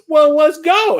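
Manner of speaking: high put-on woman's voice, inviting; hammed-up saucy proposition; mock flirty streetwalker. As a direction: lure him into the alley, coyly. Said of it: "she goes".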